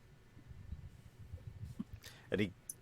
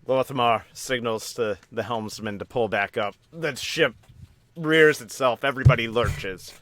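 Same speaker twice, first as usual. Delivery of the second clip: excited narration; 3 semitones higher, 7 dB louder than usual. A narrator's reading. GM narrates ship rearing up.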